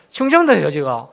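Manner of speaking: 충청도예요 said again with a laugh, rising in pitch; laughing reveal. Shown as a demonstration. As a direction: laugh as you repeat 충청도예요. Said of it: "서프라이즈?". (웃으며 충청도예요)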